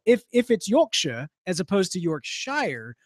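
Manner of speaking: "Yorkshire" first as york-sher, then as york-shy-er; two Yorkshires. Shown as a demonstration. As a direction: set short "Yorkshire" against spelled-out "Yorkshire". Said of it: "why is it spelled Yorkshire".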